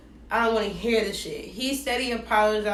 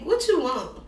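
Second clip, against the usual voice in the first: annoyed; 5 semitones higher than usual. Retold or imitated. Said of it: "'cause I'm annoyed, I'm irritated".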